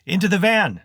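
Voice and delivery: high, loud shouted order; shouting. A narrator's reading. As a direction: yell the order to fall back. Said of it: "he shouted".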